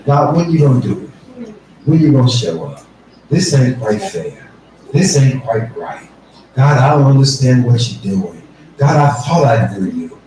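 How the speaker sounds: low, complaining plea to God; Habakkuk's doubt, lightly voiced; questioning God. Habakkuk questioning God, low and complaining. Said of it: "He goes from questioning God".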